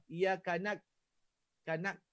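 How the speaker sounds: iyaka na- with an extra kaf, kanak; added kaf. Shown as a demonstration. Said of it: "saya tambah huruf kaf". (tambah huruf kaf)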